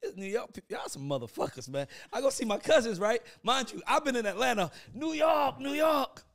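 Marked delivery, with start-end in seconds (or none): 4.9-6.2 proud call-out. Retold or imitated. Proudly repping New York.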